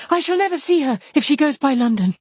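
high, distraught wail of words; hurried feverish cry. A narrator's reading. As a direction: lament frantically in a fevered state. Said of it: "in the same hurried manner".

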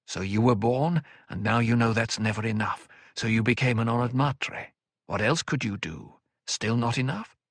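steady elder counsel; calm older mentor. Acted. Odrade lectures calmly.

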